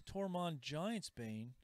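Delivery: drawn-out Tormund Giantsbane, savoring each syllable; slow prize announcement. Shown as a demonstration. Host reveals the prize to the winner, slow and grand. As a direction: stretch out Tormund Giantsbane slowly, like a game-show host.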